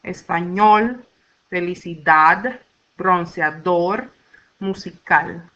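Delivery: measured list with weight on the ÑOL, DAD, DOR, CAL of Español, felicidad, bronceador, musical; end-stressed Español, felicidad, bronceador, musical, pausing between; stress on last syllable. Shown as a demonstration. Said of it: "have the stress on the last syllable".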